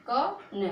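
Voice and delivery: slow "क न", each letter apart; sounded out. Shown as a demonstration. Teacher repeats letters for learners, sounded out slowly "क न". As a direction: sound out "क" then "न" separately. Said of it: "का बोलो".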